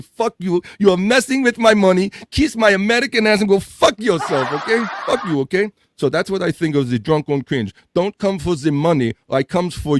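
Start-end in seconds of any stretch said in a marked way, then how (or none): 0.0-5.7 mock angry outburst. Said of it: "because I will say".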